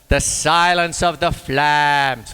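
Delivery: slow, drawn-out movie trailer read; slow and ominous, milking the pun; mock movie trailer. Drummer selling his old pun with a slow trailer voice. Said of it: "I've done that joke to death".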